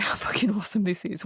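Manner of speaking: quick excited whisper; awed whisper. Real, not acted. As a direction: whisper it as if it's too good to say aloud. Gushing about favourite movie scene.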